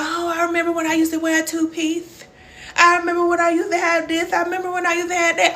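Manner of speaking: high mock whine of a mother missing her old life; mocking whiny mom. Mocking moms who miss their pre-baby bodies, high whiny voice. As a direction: put on a high, silly voice to mock a mom stuck on the past.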